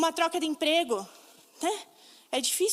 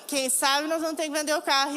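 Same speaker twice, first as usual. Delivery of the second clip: tearful telling. Real, not acted. Husband tells of selling car.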